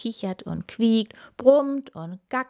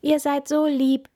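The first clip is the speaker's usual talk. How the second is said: higher, louder delight; pleased; 7 semitones higher, 6 dB louder than usual. A narrator's reading. Lenny thanking the animals, high pleased. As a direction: sound genuinely pleased. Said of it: "freut er sich".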